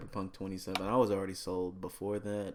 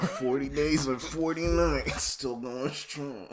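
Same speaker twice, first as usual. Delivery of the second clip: rapper impression; 5 semitones higher, 3 dB louder, slower than usual. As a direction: drawl it like a rapper. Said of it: "why do you say still going strong like that".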